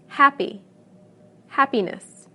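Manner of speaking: HAP-py, HAP-piness; same stress. Shown as a demonstration. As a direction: stress the first syllable in Happy and happiness. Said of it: "the stress remains the same".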